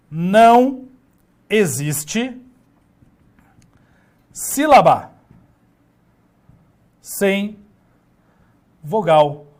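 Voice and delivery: each word spaced out slowly as it is written; slow dictation. Shown as a demonstration. Teacher writing the rule on the board, slow and spaced. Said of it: "vou escrever isso".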